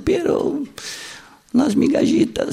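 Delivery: cling to hope and beg; pleading woman. Acted. The kneeling woman answering Jesus, high and loud pleading.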